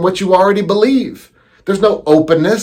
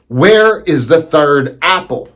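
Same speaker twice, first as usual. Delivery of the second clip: demanding again, slower and heavier; menacing repeat. Acted. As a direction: press her hard, slowly. Husband repeats, more menacing.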